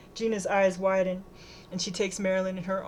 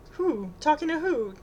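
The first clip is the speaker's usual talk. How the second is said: much higher, incredulous question; sharp rise in alarm; baffled questioning; 8 semitones higher, 3 dB louder than usual. A narrator's reading. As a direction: demand to know who.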